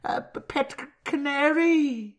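high-pitched, halting mock Welsh accent; squeaky cartoon Welsh accent. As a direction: stumble along in a high Welsh lilt. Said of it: "One more, Welsh".

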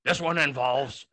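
a lightly voiced old man spinning a crude recipe; smug old storyteller, lewd and unhurried; a hint of a crude old man; Nixon. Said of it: "Nixon's gonna tell you".

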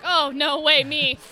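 loud imitation of a cat butting in; pushy cat voice. Cats racing owner to the toilet, imitated pushy insistence. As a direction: cut in loudly as a cat claiming first turn. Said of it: "and they'll be like".

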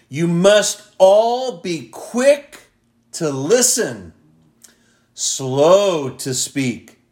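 slow, deliberate verse with spaced phrases; emphatic scripture reading. Acted. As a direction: read the verse weightily, pausing between phrases. Reads another Bible translation aloud.

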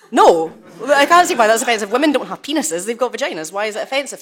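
loud, high, indignant protest; exasperated retort. Retold or imitated. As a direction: burst out with a loud no, then argue it. Retold heated reply to interviewer.

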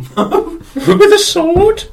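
high, slow, laughing disbelief; incredulous laughing. Real, not acted. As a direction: squeal it in disbelief.

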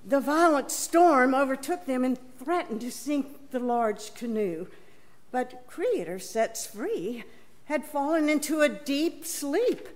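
measured gospel reading for the congregation; scripture reading. Acted. Reader telling the gospel story to the congregation, measured. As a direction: read it as a storyteller sharing a sacred tale.

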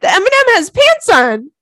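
high, loud, laughing through the words. Real, not acted. Host cracking up about the M&M pants, high and loud. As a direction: barely get it out for laughing.

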